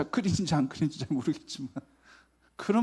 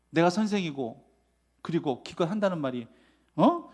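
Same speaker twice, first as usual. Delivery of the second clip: grumpy woken Jesus; 2 semitones higher, 8 dB louder than usual. Pretend. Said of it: "이런 식으로 아마 이야기 표현하고 싶었을런지도".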